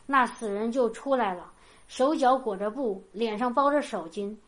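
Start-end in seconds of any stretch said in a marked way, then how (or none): none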